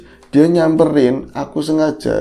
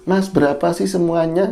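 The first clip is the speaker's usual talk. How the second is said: lightly imitated girlish voice, raised pitch; 4 semitones higher than usual. Big man asks the total price, imitated girlish voice. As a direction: ask it like a man talking girlishly. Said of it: "Ngomongnya kayak cewek".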